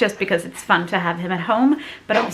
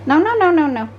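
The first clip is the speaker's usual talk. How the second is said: firm no; 7 semitones higher, 4 dB louder than usual. Real, not acted. Mother stopping toddler from climbing the stove, loud sharp no.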